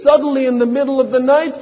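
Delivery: suddenly urgent, voice climbing; urgent rising alarm. Acted. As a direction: snap the tension up, hurrying. Repeated line, now high and fast.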